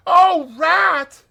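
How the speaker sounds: high loud relieved cry. A narrator's reading. Exhausted Mole crying out to his rescuer. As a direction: burst out in relief. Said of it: "he cried".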